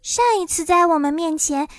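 put-on high, questioning girl's voice; high-pitched perplexed child; puzzled. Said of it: "朵罗西迷惑地说".

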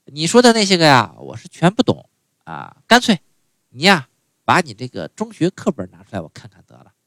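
put-on a touch of an old mom, unhurried; half-hearted mother voice explaining herself; mother speaking. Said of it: "这个就说了".

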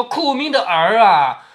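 slow, drawn-out lament; mother keening over her son, mildly; mock wail. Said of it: "不觉失声大哭起来".

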